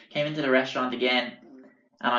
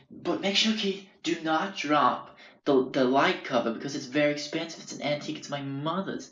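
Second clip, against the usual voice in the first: imitating Frank; 3 semitones higher than usual. Landlord Frank voiced in story.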